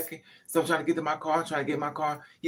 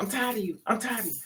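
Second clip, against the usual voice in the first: high, angry, repeated screaming; 6 semitones higher than usual. Retelling a partner who screamed while pushing: imitating someone screaming. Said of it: "He's screaming at me".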